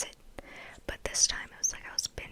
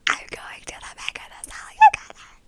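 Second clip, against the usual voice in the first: too-loud whisper; 15 dB louder than usual. Real, not acted. Excited about the concert, whisper slips out too loud. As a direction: whisper that bursts out much louder. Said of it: "I'm sorry".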